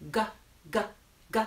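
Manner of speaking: "g" said as a short isolated sound, repeated; letter sound demo. Shown as a demonstration. Teacher sounding out the letter G for children, letter sound demo. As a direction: sound out "g" separately, with pauses. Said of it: "sound of the letter G".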